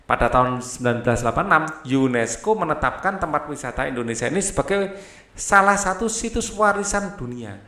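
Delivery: steady, formal reading aloud of a passage; textbook reading. A narrator's reading. Teacher reads a tourism passage to pupils. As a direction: read it out like the textbook.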